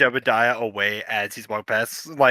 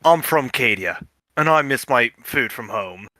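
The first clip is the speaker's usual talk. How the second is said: dejected; 5 semitones lower, 3 dB quieter than usual. Acted. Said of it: "hang his head a bit as he goes".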